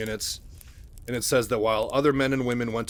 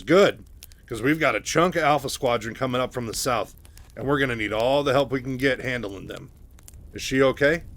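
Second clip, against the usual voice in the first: urgent report; 2 semitones higher, 5 dB louder than usual. Acted. Raynor telling Mike about Alpha Squadron, loud and urgent. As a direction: bark out the battle news.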